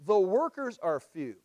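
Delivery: "The workers are few" said slowly and deliberately; slow emphasis. Shown as a demonstration. Preacher repeating the verse's key phrase, slow emphasis. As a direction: give "workers" the weight, then fall on "few". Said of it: "You see the emphasis right there?".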